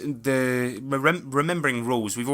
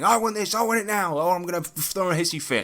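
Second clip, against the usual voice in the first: put-on higher whiny bratty kid voice; mock a spoiled seven-year-old; demanding child; 6 semitones higher than usual. Uncle mocking his demanding niece in a higher whiny voice. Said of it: "one of those children, very demanding".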